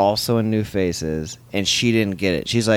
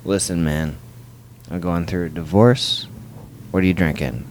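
confiding drinker; 4 semitones lower than usual. Retold or imitated. Acted confiding of gloomy divorcing comic.

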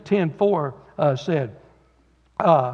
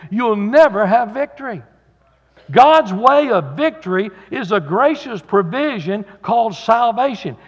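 preaching; 2 semitones higher than usual. Acted. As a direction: drive the point home to the congregation. Preaching the first principle.

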